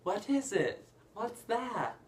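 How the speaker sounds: high-pitched, curious little teacup; piping, loud cartoon child voice; Chip. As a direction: imitate an eager little kid asking questions. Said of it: "Chip, the little teacup, is like".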